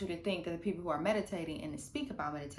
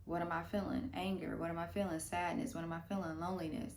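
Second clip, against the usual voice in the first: inner questioning; 3 dB quieter than usual. Retold or imitated. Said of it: "It's like".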